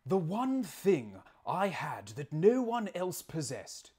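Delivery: hammed-up British accent with swooping pitch; theatrical British narrator, badly faked; terrible British accent. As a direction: read it out in a bad Attenborough-style British accent. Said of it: "probably a terrible British accent".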